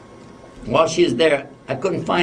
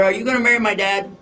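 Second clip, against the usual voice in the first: higher-pitched, lightly voiced little girl; little daughter; 7 semitones higher, faster than usual. Little daughter asks the lady about marrying Dad, lightly imitated child. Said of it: "the same little daughter".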